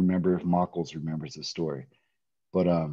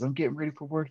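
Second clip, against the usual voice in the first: a much higher mom voice, hurried; imitating mom; 9 semitones higher, 3 dB quieter, faster than usual. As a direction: pitch way up to play your mom on the phone. Mom voiced in story on phone.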